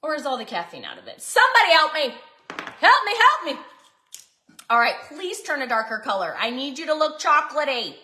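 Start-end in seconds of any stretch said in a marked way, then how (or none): 1.2-3.6 loud mock plea for help, higher; hammed-up call for help to the viewers; mock cry for help. Baking vlogger begging viewers to rescue her mix, mock plea.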